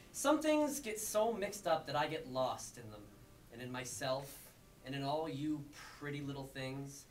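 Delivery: deliberate spoken-word cadence; confessional poem reading. Acted. Poet confessing to playing the bad guy, deliberate spoken-word delivery.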